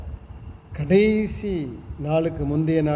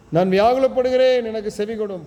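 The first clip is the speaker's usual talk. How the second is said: lamenting cry; 4 semitones higher than usual. Acted. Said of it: "புலம்புறான், அழுறான்".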